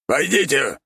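high squeaky bark; rat lord barking. A narrator's reading. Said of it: "рявкнул владыка".

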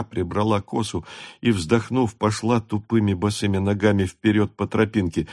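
ordinary delivery

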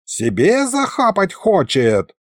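high, drawn-out indignation; indignant yelping. A narrator's reading. Sorcerer accuses a thief over his hand, indignant. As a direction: protest at being robbed. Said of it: "завопил старый колдун".

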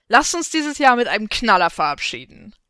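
loud stage announcement; rally a concert crowd, loud and rousing; rousing shout from the stage; calling into the mic. A narrator's reading. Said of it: "rief sie ins Mikro".

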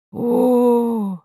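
long startled oh; drawn-out gasp of surprise. Acted. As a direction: stretch out a shocked oh. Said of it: "протянула Кэнди".

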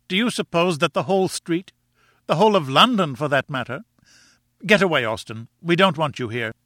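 high-pitched scolding wife; indignant cry. A narrator's reading. Wife shaming husband over his lost dignity, indignant cry. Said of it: "she cried".

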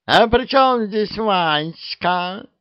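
hammed-up shrill cat squeal; wild shriek. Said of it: "дико взвизгнула".

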